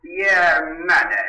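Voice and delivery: slow, drawn-out anguished cry; slow pained shout. Acted. Gardener and Paula quarrel, slow anguished cry. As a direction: drag the words out in bitter pain.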